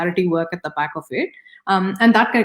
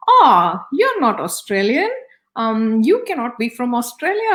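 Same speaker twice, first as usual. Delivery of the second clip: higher-pitched retold jibe, loud on the opening; mock loud heckle; 5 semitones higher than usual. Gentleman loudly challenging her in the lift, mock loud heckle. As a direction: imitate a loud man's disbelief, pitched up. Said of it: "he's quite loud. He makes this big, big comment".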